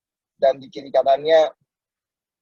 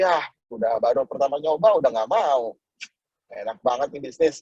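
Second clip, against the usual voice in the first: mock grumbling; 2 semitones lower than usual. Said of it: "Orang gagal begitu".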